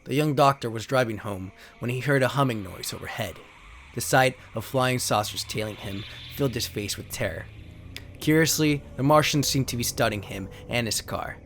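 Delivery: dramatic narrator reading out card backs; steady storyteller read of alien invasion cards; card text reading. Acted. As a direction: read it like an old sci-fi trailer. Reads trading card text aloud.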